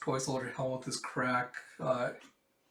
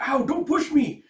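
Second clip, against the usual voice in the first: shouting; 13 semitones higher, 11 dB louder than usual. Acted. Crowd pushing into shelter.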